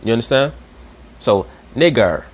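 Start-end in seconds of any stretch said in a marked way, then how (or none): 1.8-2.2 "nigger" slowed, with I as a front vowel; Latin pronunciation. Shown as a demonstration. Teacher sums up the Latin rule, slow "nigger" without long I. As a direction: slowly sound out "nigger," no eye glide. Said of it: "that's how they pronounce the word".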